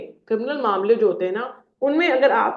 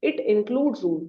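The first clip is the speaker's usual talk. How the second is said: slow dictation; much slower than usual. Shown as a demonstration. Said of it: "टू one में".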